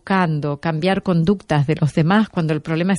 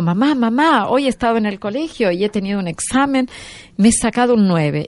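voz aguda de niña que llega corriendo, un poco más fuerte; niña ilusionada; 5 semitones higher than usual. Retold or imitated. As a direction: imitando a una niña contando su nota con entusiasmo. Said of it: "era como una niña". (la niña le cuenta a su madre el examen, aguda y emocionada)

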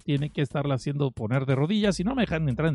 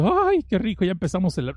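delighted. Retold or imitated. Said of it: "tú dices".

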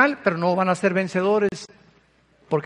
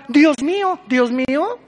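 "Dios mío" agudo y fuerte, en pánico fingido; grito asustado; 5 semitones higher, slower than usual. Retold or imitated. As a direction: imita a un ateo aterrado en el terremoto. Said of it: "ateos que gritaban". (grito de pánico imitado)

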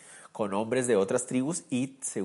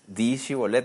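demanding guard; 5 dB louder than usual. Retold or imitated. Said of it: "Tenían que decir una palabra".

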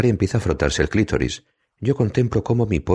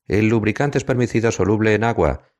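higher-pitched call across the flat; shouting back; 8 semitones higher than usual. A narrator's reading. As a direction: shout the answer to the bedroom. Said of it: "le contesto gritando". (contestando a gritos, más agudo, hacia el dormitorio)

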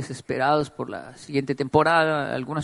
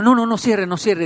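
panicked pleading; 4 semitones higher, 5 dB louder than usual. Retold or imitated. Flaco friend panicking in washer.

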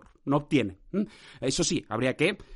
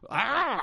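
sudden cry; 8 semitones higher than usual. Real, not acted. Spelt cry amid nonsense words.

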